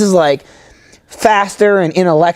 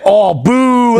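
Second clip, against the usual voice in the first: imitated heckling; 3 semitones higher than usual.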